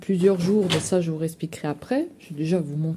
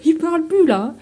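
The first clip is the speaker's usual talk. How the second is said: high teasing pet voice; 9 semitones higher, 7 dB louder than usual. Real, not acted. Laughing baby talk to cat.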